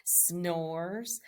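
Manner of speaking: slow, sinking read-aloud refrain; storybook refrain. A narrator's reading. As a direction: let the sleepy line drop low.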